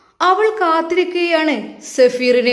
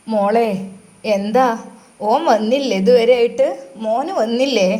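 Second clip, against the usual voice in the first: put-on old mother's voice; 3 semitones lower than usual. Old mother asks about son.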